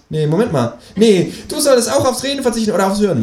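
very high creature voice; bickering kangaroo. A narrator's reading. Kangaroo quarrelling with the narrator, very high. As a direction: argue back in a high animal voice.

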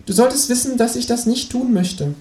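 high kangaroo playing tough interrogator; hammed-up menace, pitched high; mock threat. Kangaroo interrogates narrator, mock threatening.

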